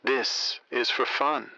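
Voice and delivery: very slow, soothing rhyming lines, the last one whispered; slow poetry recital. Acted. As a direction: croon the verse like a late-night host. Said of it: "I'll lay down some lines".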